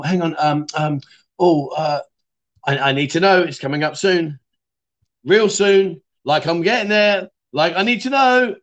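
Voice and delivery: hammed-up driver losing his cool; mock panic building. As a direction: act out the growing panic as the junction comes up. Retold panic at the wheel.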